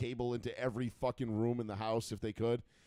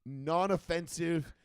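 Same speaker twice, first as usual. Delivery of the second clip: mock producers; 4 semitones higher, slower than usual. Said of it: "They were like".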